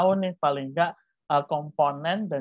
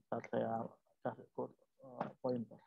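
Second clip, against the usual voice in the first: off mic; 4 semitones lower, 16 dB quieter than usual. Real, not acted. Teacher turns away for pointer.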